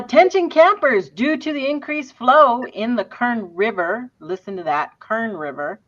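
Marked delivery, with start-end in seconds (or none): 0.0-3.5 announcer. Acted. Reading a warning notice.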